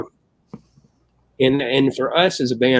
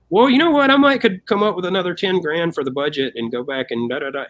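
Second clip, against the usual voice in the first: eager offer; 7 semitones higher than usual. Retold or imitated. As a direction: jump in with a sudden idea. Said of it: "the guy across from her goes".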